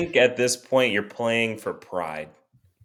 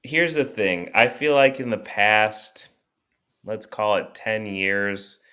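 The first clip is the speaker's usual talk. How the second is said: measured speech with long dramatic pauses; deliberate rallying monologue; pep-talk speech; 3 semitones lower than usual. Acted. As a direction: address the fans like a solemn orator, pausing between phrases. Gives a speech to fans.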